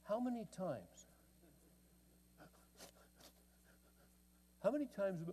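stern father. Retold or imitated. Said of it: "then he would say".

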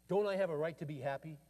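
a touch of angry frustration, quoted; mildly heated retold protest; frustrated demand. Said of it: "frustrated and angry".

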